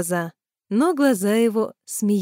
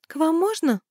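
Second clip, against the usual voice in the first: Tanya's higher voice, muffled through the door; muffled from corridor; 8 semitones higher than usual. A narrator's reading. Tanya asks from the corridor, lightly muffled. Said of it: "раздалось из коридора приглушённое".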